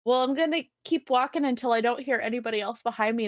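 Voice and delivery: ordinary talk, nothing marked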